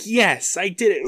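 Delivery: high-pitched hammed-up cheer; mock triumph. Co-host imitates girl celebrating on the stairs, mock triumph. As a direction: celebrate far too soon.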